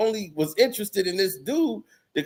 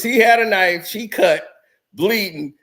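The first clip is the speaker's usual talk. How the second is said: panicked report; 4 dB louder than usual. Retold or imitated. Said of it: "that's all I hear is".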